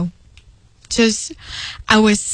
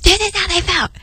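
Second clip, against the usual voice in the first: higher, dazed realization; quoting her own stunned reply, higher; realizing reply; 8 semitones higher, faster than usual. Retold or imitated. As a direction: say it as the penny drops. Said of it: "And I'm like".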